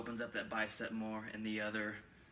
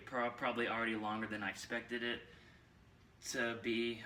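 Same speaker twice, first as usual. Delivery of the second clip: breathless after posing; out of breath. Real, not acted. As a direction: talk while catching breath. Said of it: "I'm a little bit out of breath now".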